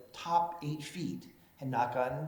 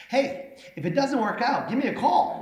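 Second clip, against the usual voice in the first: flirty woman's voice; 10 semitones higher, 6 dB louder than usual. Retold or imitated. The mayor quoting the woman's flirty offer, higher and louder.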